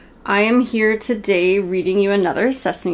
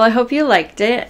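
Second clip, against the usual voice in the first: plain reading voice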